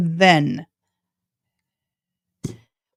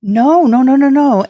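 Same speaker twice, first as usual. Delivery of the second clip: emphatic no; 6 semitones higher, 5 dB louder than usual. Real, not acted. Reacting to viewer comment.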